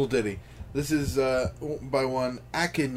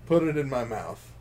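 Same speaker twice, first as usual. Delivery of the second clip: deadpan reading of crude lyrics; dry lyric recital. Acted. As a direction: read the crude words dryly. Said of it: "reading this".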